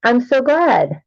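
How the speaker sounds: muffled, boomy mic sound. Real, not acted. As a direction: speak through a muffled mic. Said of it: "My mic sounds muffled".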